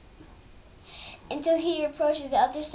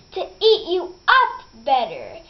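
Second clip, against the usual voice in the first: wolf's loud reveal; 7 dB louder than usual. Acted. Wolf reveals himself.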